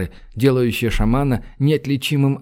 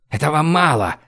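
plain reading voice

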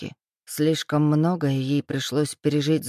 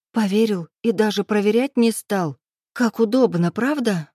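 higher, louder bitter reproach; reproachful; 4 semitones higher, 3 dB louder than usual. Acted. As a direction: needle him bitterly. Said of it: "упрекнула". (героиня упрекает его: горько, громче)

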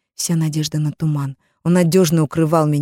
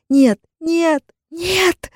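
urgent whisper; 11 semitones higher, much slower than usual. Acted. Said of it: "горячо зашептала я".

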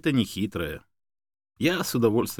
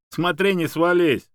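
higher, louder, stretched-out warning; amused teasing; 8 semitones higher, 6 dB louder, slower than usual. A narrator's reading. Man teasing a dog jumping on a chair, amused. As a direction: tease merrily, without a real laugh. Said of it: "рассмеялся Юрий".

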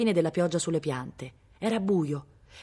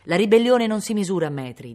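louder, higher fatherly admonishment; pressing; 4 semitones higher, 7 dB louder than usual. A narrator's reading. Baron pressing his rebellious son in the tree, more stringent. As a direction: press the point firmly and raise the voice. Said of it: "si fece più stringente".

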